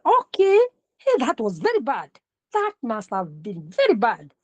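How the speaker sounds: quick shocked remark slowing down; fast then fading. Shown as a demonstration. Teacher demonstrating pace to the class, quick then fading. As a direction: rush the words then let them drop. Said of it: "Then the pace, sometimes you say".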